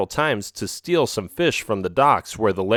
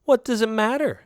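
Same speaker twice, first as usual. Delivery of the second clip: smiling; 11 semitones higher than usual. A narrator's reading. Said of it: "she said with a smile".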